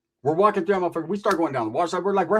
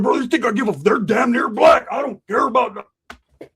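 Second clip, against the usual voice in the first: put-on higher, louder, slow drunk yelling; loud defiant shout; 5 semitones higher, 5 dB louder than usual. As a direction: shout it for the whole restroom. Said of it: "He's being louder".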